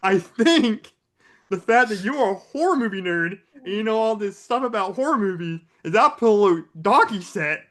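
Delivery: hammed-up wrestler trash talk; wrestling trash talk. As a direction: taunt the rival like a WWE promo. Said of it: "we're doing W W E stuff now".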